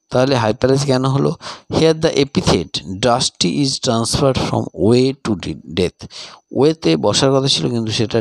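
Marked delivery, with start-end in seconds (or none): 1.7-6.0 slow, deliberate answer read for copying; teacher dictating an exam answer; slow dictation. Shown as a demonstration. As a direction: read it out word by word for students to write. Dictates model answer slowly.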